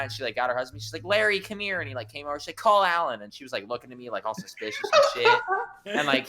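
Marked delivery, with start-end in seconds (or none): 1.0-1.8 higher-pitched mimicry of calling a husband over; mock a wife summoning her husband; retold call across the room; imitated summons. 2.6-3.2 higher, louder mimicry of a bossy wife; mock a suspicious woman giving her husband an order; retold sharp command; imitated order.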